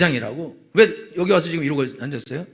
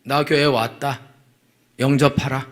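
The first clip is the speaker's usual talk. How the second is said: slow, self-important announcement; mock haughty newcomer, drawn-out and lordly; arrogant churchgoer; 4 semitones lower, slower than usual. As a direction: announce yourself slowly, expecting a welcome. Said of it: "그러니까 성도가 교회 와서 건방져요".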